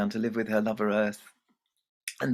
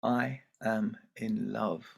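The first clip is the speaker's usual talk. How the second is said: simple calm statement; slower than usual. Acted. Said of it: "And Hare simply said".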